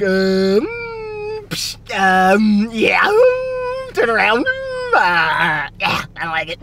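halting, mumbled hesitations; lightly mocking stammer; mumbling awkward friend impression. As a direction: mimic a shy guy who freezes up. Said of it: "You're like".

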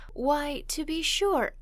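a lively lift on the words; animated. A narrator's reading. McFadden seizing the reader's suggestion, animated. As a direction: brighten up at the idea. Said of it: "he said with some animation".

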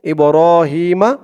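ইব্রাহিমা, shorter stretch, final vowel sounded; one-alif madd. Shown as a demonstration. Teacher shows reading on without pausing, moderate stretch and open "ma". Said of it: "এক আলিফ টানই হবে".

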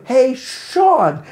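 loud, high, drawn-out Sean; mock straining to get the name right; struggling greeting. Audience member greeting him after the show, mock struggling loudly over the name. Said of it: "you can see them struggle".

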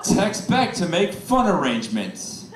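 slow, flat reading of the text; slow deadpan text reading. Retold or imitated. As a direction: read it slowly, deadpan. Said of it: "the death text".

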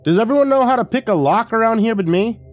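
high, loud exasperated outburst; snapped. A narrator's reading. Narrator to intruder at the door, snapping. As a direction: snap it out in exasperation. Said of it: "I snapped".

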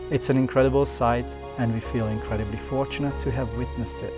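calm documentary voiceover; nature documentary. A narrator's reading. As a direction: narrate the wildlife scene calmly. Narrated voiceover over music.

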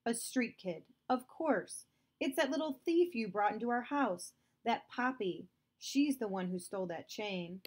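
a hint of a furious father blaming the girl; angry father accusing.

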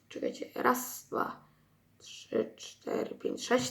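counting under his breath; whispered counting. Real, not acted.

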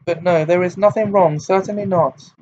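proud hurt spilling over; throbbing with emotion. A narrator's reading. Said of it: "in a voice throbbing with emotion".

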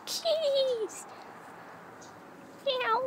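very high, soft calling voice; kitty call. Real, not acted. Calling to the kittens.

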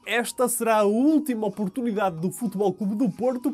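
measured, projected sports bulletin delivery; news read. Acted. Anchor reporting transfer news to viewers, news read.

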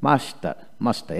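মাস্টার with an A vowel where U is written; A sound for U. Shown as a demonstration. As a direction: model মাস্টার with short A in the first syllable. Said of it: "ইউ জায়গায় এ উচ্চারিত হয়". (মাস্টার, ইউ-এর জায়গায় এ)

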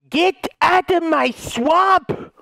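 high, drawn-out ogre yell; ogre's shout. Acted. Ogre chasing intruders off, long high yell. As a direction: holler it slowly, ogre-style. Quotes ogre's famous line.

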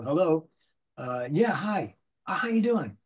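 drawn-out hello with long pauses; slow phone answer. Shown as a demonstration. Demoing a game actor answering a ringing phone. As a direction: take your time answering the phone. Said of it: "if the phone rings, you go".

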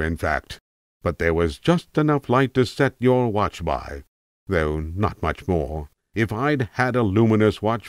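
a hint of a rambling old tramp, musing; an old vagrant drifting into memory, lightly done; a lightly voiced tramp reminiscing to a young listener. Tramp resumes his monologue.

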